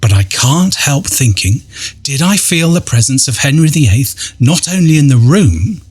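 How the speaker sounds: measured, dramatic first-person storytelling; ghost story narration. A narrator's reading. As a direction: read an eerie account with deliberate pauses. Reads out a ghost-hunt account.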